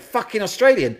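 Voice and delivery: high, loud incredulous shout through laughter; big brother scoffing at an Australian band, shouting and laughing; mock outraged brother, laughing. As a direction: laugh while aping the brother's disgust. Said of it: "He went".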